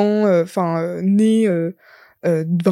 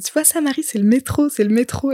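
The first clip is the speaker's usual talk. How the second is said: condescending; 5 semitones higher than usual. Retold or imitated. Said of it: "on me prend pour une débile".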